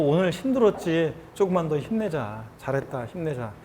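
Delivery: pat yourself on the back with your voice; 토닥이는 말투. Acted. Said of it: "스스로 이렇게 토닥여주면서". (스스로를 달래듯 점점 낮고 부드럽게)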